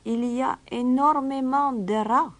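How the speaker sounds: high, lightly smiling stranger's voice; with a little smile. Acted. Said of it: "avec un petit sourire". (petit sourire en coin de l'étranger)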